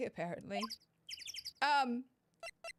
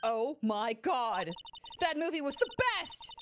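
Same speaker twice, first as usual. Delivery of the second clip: gushing fan; 4 semitones higher, 4 dB louder, slower than usual. Acted.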